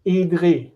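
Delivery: Idri articulated with exaggerated care; overpronounced. Shown as a demonstration. Teacher showing the word for my herd, overpronounced. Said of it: "I'm, uh, pr-, overpronouncing".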